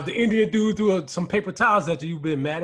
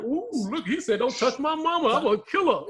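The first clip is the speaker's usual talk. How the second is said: mock awe; 6 semitones higher than usual. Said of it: "I was like".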